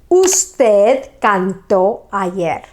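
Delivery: slow, even "Usted cantó ayer"; slow model sentence. Shown as a demonstration. Teacher modelling a sentence for students, slow. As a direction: spell it out in sound for learners.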